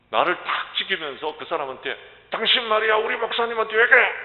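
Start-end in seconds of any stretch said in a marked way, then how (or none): 2.3-4.1 imitated yell, high and loud; retold angry shout. Young church member defending the pastor to the intruder, imitated angry shout. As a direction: shout like a protective churchgoer confronting someone. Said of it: "소리를 지르더라고요".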